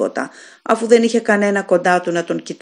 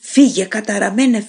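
raised, frightened command "Φύγε, καταραμένε"; driving it away; 2 semitones higher than usual. Acted. Dying man orders the unseen demon away, frightened.

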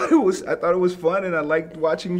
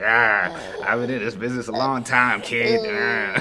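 put-on old-timer voice; 7 semitones lower than usual. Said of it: "So everybody like".

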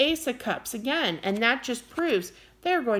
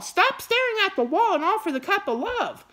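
wound up; 7 semitones higher than usual. Real, not acted. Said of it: "I don't mean to get wound up".

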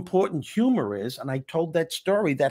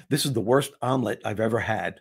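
joking through tears; 3 semitones lower than usual. Retold or imitated. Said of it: "wiping the tears from my eyes".

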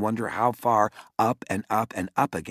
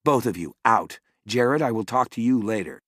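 stern order; 2 semitones higher, 4 dB louder than usual. Acted. Mother ordering kids out.

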